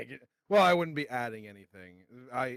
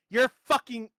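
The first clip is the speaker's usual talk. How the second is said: retold insult; 4 semitones higher than usual. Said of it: "Gave up there at the end".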